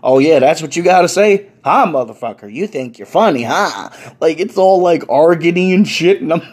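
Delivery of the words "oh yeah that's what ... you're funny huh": mild imitation of a bill collector. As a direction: trash talk like a debt collector. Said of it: "sounds like a bill collector".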